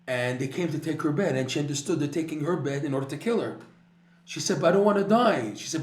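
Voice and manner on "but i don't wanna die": desperate plea. Retold or imitated. Dying woman pleads with nurse.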